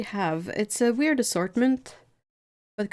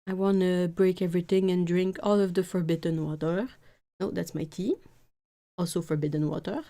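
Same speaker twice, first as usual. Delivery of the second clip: lightly voiced cat. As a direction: play the mischievous baby cat. Voicing the cat to viewers.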